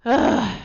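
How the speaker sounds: exasperated in-character sigh; character's sigh. Acted. Player voicing her character at the wheel, exasperated sigh. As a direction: heave a weary "ugh". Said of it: "give a Gretel sigh".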